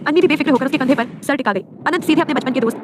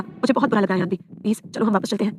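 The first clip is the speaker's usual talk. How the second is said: soft plea; 3 semitones lower, 5 dB quieter than usual. A narrator's reading. Husband pleads softly with hurt wife.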